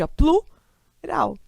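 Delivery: plural, drawn out slowly as one unbroken syllable; slow demo of plural. Shown as a demonstration. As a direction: stretch out plural so the pl stays joined. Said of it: "A pronúncia sai de uma vez automaticamente".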